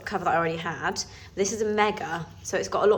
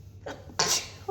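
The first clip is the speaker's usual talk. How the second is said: a real sneeze; sudden stifled sneeze; sneezing; 5 dB quieter than usual. Real, not acted. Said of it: "I'm gonna sneeze".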